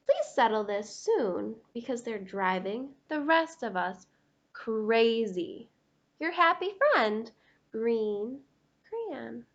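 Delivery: gentle read-aloud storybook voice; reading to children. Acted. Reads green crayon's letter aloud.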